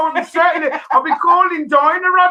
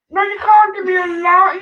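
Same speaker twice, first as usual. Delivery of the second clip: panicked protest; 3 semitones higher than usual. Real, not acted. Dreading the chili dose.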